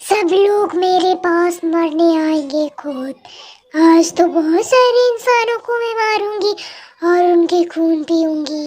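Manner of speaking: a slow, heavy witch voice that relishes the kill; menacing, slow, low witch voice; possessed witch. Acted. Possessed girl vows killing.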